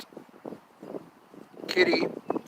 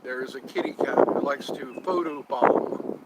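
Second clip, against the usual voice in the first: playful high voice; 4 semitones higher, 5 dB louder than usual. Real, not acted. Talking about cat playfully.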